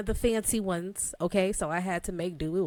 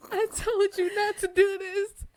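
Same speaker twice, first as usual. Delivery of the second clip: high-pitched mock scolding, rising at the end; heated husband, mock; 13 semitones higher than usual. Husband scolding wife over sleeping with baby, mock-heated. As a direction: squeal it like an exasperated husband, amused. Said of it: "and he is heated".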